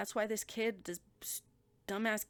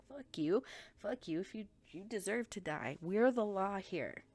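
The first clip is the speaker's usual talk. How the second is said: mock angry kid; 3 semitones higher, 4 dB louder than usual. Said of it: "He's like".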